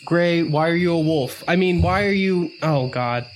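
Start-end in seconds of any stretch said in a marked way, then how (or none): none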